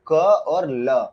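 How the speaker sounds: letters stretched out very slowly; slow, careful spelling for students. Shown as a demonstration. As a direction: dictate each letter slowly. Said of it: "कोल देख लो".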